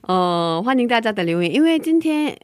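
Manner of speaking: muffled through a mask; masked speech in a hot studio; through a face mask. Real, not acted. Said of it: "戴着口罩 录音".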